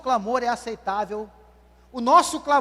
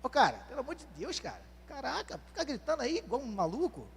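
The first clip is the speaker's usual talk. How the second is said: much softer, muttered dismissive scolding; scolding friends; 11 dB quieter than usual. Retold or imitated. Friends telling blind Bartimeu to stop, soft and dismissive. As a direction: hush him like he's embarrassing you. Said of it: "falaram o que pra ele".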